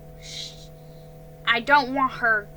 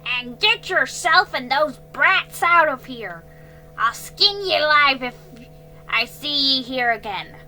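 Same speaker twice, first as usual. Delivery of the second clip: higher, loud menacing snarl; snarled threat; 4 semitones higher, 8 dB louder than usual. A narrator's reading. Man snarling threat at girl and children.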